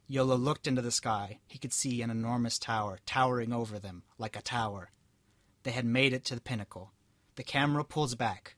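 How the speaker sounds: steady storybook reading voice; story narration. A narrator's reading. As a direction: read it out like a tale. Reads story aloud.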